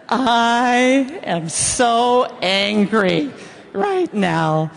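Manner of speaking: slow, smiling sweetness on angry; sweetly serene, grinning through it; smiling calm. Shown as a demonstration. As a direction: say it slow with a big smile. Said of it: "with a beautiful smile on your face".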